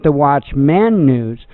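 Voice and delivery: "Watchman" with a full "man" at the end; stressed singular MAN. Shown as a demonstration. Telling which show name was picked, Watchman said as watch-MAN. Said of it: "And I went with".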